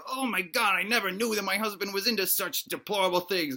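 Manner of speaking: hushed mock horror; horrified. Wife discovers what her husband is into, horrified. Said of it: "his wife is horrified".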